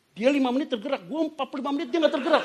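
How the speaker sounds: high, loud comic protest; mock indignation. Preacher joking about being outshone by his singing wife, mock indignant.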